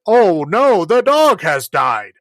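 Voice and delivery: mock the actors' overdone sorrow; mock melodrama. Imitating film actors mourning a dead dog, hammed-up. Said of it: "they're like".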